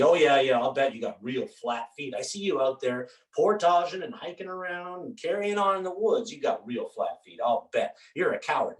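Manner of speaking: mock his excuse with scorn; sarcastic mockery. Martin Bletcher Junior sneering at Tom's flat feet excuse, sarcastic.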